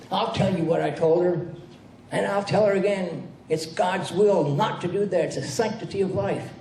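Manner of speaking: a preacher laying down the law. Retold or imitated. Minister defending condemnation.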